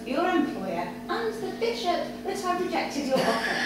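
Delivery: lightly voiced lady, amused and commanding; Victoria's ultimatum. Victoria giving Algernon an ultimatum, amused and commanding. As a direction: give the ultimatum, barely holding back a laugh.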